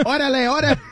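fake Spanish accent. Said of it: "your Spanish accent".

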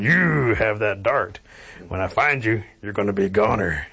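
a bear backing down but vowing revenge; menacing bear. Acted. Bear threatens the armed Cherokees.

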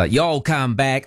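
slow, half-hearted Southern American drawl; attempted Southern accent. Radio host failing to mimic a film's Alabama talk, Southern accent. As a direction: have a hesitant go at an Alabama accent. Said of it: "I can, no, I can't".

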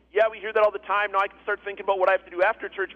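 quick, offhand acted thought; hurried inner voice of someone tuning out; dismissive churchgoer. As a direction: rattle it off like a mildly bored listener.

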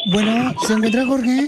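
lightly voiced Central American lady; Salvadoran-Colombian woman. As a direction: play a half-Salvadoran, half-Colombian woman on a prank call. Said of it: "habla como salvadoreña".

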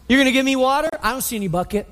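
mild mock incredulity, then dropping away; incredulous attitude. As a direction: scoff at the offer, voice up. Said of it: "She's got an attitude".

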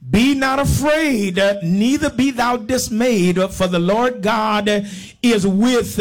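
drawn-out, emphatic Bible declamation; scripture proclamation. Real, not acted. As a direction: ring the verse out over the congregation. Reads scripture to congregation.

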